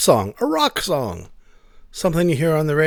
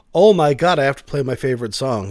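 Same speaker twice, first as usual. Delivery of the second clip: mock excited; 7 dB louder than usual. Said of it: "so it's not like".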